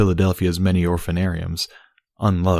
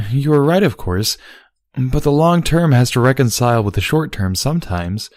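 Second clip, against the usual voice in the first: Celestia; 7 semitones higher, 4 dB louder than usual. A narrator's reading. Celestia voiced in story.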